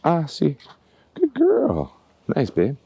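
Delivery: put-on high sing-song praise, the cue then good girl; cue demo. Shown as a demonstration. Trainer showing viewers her puppy cue, in high sing-song praise. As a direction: lift the voice right up into bright dog praise. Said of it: "It goes".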